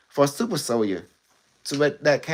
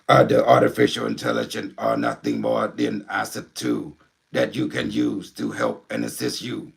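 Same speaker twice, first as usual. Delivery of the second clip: Unimetric One. Acted. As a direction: speak like an alien intelligence through a medium. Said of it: "you wanna meet, uh, Unimetric One?".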